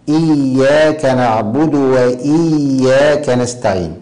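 slow recitation pressing the ي of إياك as a held double; إياك said "iyy-yaaka", ي firmly doubled. Shown as a demonstration. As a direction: lean on the doubled ي in each إياك. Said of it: "يعتني بالشدة في".

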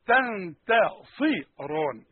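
تنتصران stretched very slowly, syllable by syllable; slow it right down on تنتصران; drawn-out recitation. Shown as a demonstration. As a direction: spell out تنتصران in slow motion. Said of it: "الاول تنت".

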